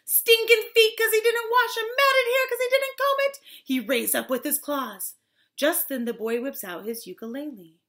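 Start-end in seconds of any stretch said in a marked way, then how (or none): 0.1-3.4 rising, high, loud listing; building disgust. A narrator's reading. Storyteller describing the filthy giant, high excited build. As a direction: pile up the horrors, higher each time.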